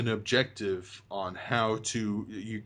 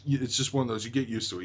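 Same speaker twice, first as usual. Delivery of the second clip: normal talking voice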